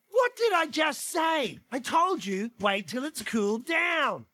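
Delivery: mildly indignant, drawn-out telling-off; lightly voiced cross mother; scolding Mama Bear. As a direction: scold a child who didn't listen. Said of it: "And Mama Bear's all like".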